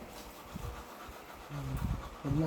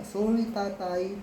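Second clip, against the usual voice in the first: slow, careful "Sorry, tatay"; a father showing how to say sorry, slowly and gently; slow proper apology; much slower than usual. Shown as a demonstration. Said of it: "Di ba dapat nga".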